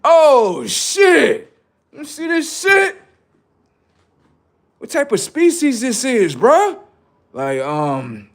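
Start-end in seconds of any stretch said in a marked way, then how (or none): 0.0-6.8 high, loud, laughing alien squawk. Acted. Aliens examining an abducted human, in a high baffled squawk. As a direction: play a baffled alien gawking at a specimen. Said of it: "Motherfucking aliens be like".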